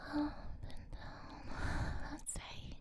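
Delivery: whispered slow Up and down. Acted. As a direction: breathe Up and down slowly. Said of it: "slowly move your hands".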